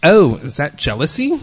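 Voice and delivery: loud, cheeky, rising retort; sassy comeback. Retold or imitated. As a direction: lean back and fire it back with sass. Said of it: "leaned back at her and I said".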